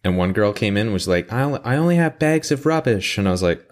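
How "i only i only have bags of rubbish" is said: imitated British customer. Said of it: "some British people that come in".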